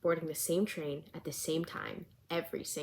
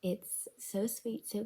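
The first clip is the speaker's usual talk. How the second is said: whispering; 3 semitones higher, 3 dB quieter, much slower than usual. Real, not acted. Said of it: "I'm whispering because people are asleep".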